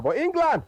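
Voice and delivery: England hit high and loud; loud high England at the turn of the story; stress on England. Real, not acted. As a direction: punch the word England. Host stresses the winning side.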